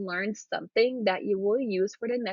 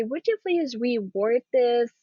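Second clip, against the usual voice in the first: polite request; slower than usual. Shown as a demonstration. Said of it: "Or you can say".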